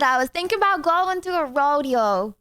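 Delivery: attempted Texas accent. Streamer joking to chat about a rodeo, failed Texas accent. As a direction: have a playful, unconvincing go at a Texas accent. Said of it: "That's not a Texas accent".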